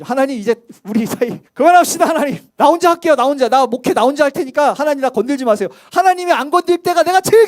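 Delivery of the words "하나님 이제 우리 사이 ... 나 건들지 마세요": a half-hearted huff at God, louder on 나 혼자 할게요; mock defiant outburst. Pastor retelling his own complaint to God, in mock defiance. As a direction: pretend to storm off from God. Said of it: "제가 개척교회에서 이 고백했거든요".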